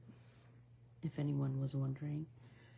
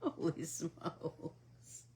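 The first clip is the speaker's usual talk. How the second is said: slow unvoiced whisper, much softer; exasperated whisper; 7 dB quieter, much slower than usual. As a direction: breathe it out wearily, very slowly. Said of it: "Jeff and I are like".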